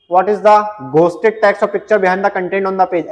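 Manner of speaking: reading the question out slowly, word by word; slow, deliberate quiz read-out. Acted. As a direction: dictate the question slowly to the class. Reads the quiz question aloud.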